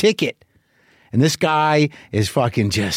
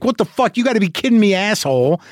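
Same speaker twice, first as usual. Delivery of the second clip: higher, exasperated mock outburst at the bag guy; 6 semitones higher, faster than usual. Stuck at airport security, venting at the bag checker in a higher exasperated outburst. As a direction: blow up in frustration, half-acted.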